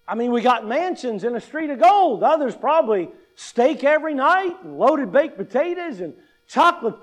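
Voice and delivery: hammed-up eager anticipation; mock excitement. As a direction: relish each treat with pretend awe. Acting out excitement about heaven.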